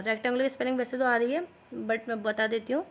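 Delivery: ordinary talk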